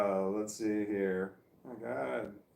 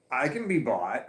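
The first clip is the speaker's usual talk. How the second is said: laughing; 3 semitones higher, 7 dB louder than usual. Real, not acted. Laughing admission of price.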